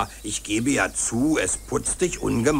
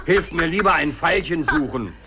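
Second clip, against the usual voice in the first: laughing; 3 semitones higher than usual. Acted. Dog still laughing.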